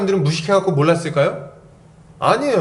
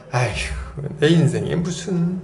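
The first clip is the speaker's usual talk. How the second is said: slow sigh of mild self-dismissal; resigned scoff. Acted. Acting Sarah doubting such joy for her life, resigned scoff. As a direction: sigh it away as hopeless, unhurried. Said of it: "피식 웃으면서 어떻게 합니까".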